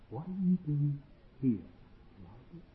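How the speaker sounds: very hushed, low, halting question; still small voice. Acted. God gently questions Elijah a second time, very softly. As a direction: let it fall almost to nothing, pausing between words. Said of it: "all he heard was a voice. Just a voice".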